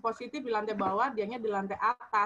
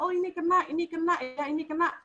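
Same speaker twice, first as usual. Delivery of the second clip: glib reaction; 6 semitones higher than usual. Retold or imitated. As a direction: toss it out like easy gossip. Imitating glib reactions to others' news.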